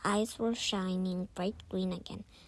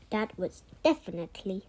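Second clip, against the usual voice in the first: louder, eager exclaiming; excited exclamation; 6 dB louder, faster than usual. Acted. Christy to Rachel about the kitten, excited exclamation. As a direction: say it like you've just proved a point. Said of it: "Christy exclaimed".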